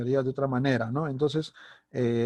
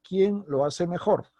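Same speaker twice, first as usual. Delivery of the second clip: slow question, "quién" lifted higher; question emphasis; 4 semitones higher, slower than usual. Shown as a demonstration. Teacher giving an example question, emphasis on "quién". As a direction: hit "quién" high, then let the question fall. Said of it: "dándole énfasis de pregunta".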